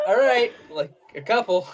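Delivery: half-laughing limit on his greedy friend; laughing mock warning. Warning his buddy to take only a couple, laughing. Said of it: "And I'm like".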